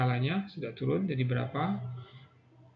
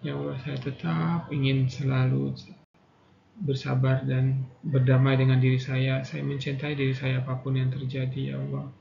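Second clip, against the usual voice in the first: guided affirmation. Acted. Leads tapping affirmation.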